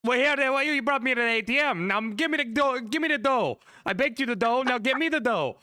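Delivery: high, loud dopey rich idiot voice. Acted. Rich idiot demanding dough from the baker, high and loud.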